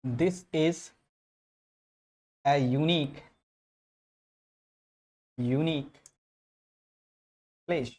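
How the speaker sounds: this is, a unique, unique, place with long pauses between; broken into chunks. Shown as a demonstration. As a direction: dictate in pieces, pausing after each. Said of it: "जैसे मैं example के लिए लिखूं".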